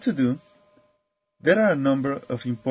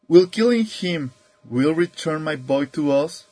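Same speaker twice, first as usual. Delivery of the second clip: mildly raised, challenging question; speaking out to crowd; 3 semitones higher, 4 dB louder than usual. A narrator's reading. Old chief challenges the loudest of the crowd, speaking out. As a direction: project it at the loudest hecklers. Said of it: "this time directly to the loudest".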